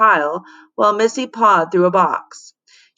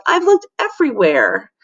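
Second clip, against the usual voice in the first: sobbing; 5 semitones higher, 3 dB louder than usual. A narrator's reading. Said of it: "Missy sobbed".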